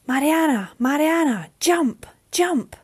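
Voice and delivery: high, loud shouted call across the sea; desperate calling over the storm. Acted. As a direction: yell up to her from the waves. Jess calls from the ocean.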